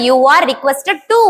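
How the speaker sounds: each word drawn out very slowly for the class; slow dictation. Shown as a demonstration. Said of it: "அதனால". (மிக மெதுவாக dictation சொல்வது)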